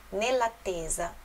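Nell'attesa said slowly, syllable by syllable; slow reading. Shown as a demonstration. Teacher spelling out the phrase for learners. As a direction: read Nell'attesa deliberately. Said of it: "Nell'attesa di uno sguardo".

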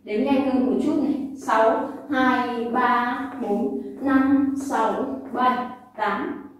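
rhythmic rep counting; counting workout reps. Shown as a demonstration. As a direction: call out the counts. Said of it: "Đếm này".

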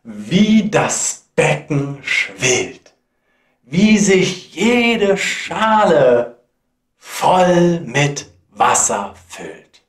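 marvelling verse with swelling key words; dramatic poem recitation. Acted. Apprentice watches the broom fill every bowl, marvelling recitation. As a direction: recite it in wonder, phrase by phrase.

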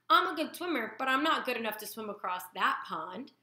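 put-on a small child wowed by the sea; lightly voiced gosling; young gosling voice.

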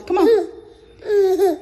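high, laughing come on; laughing disbelief. Real, not acted. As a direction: crack up in disbelief.

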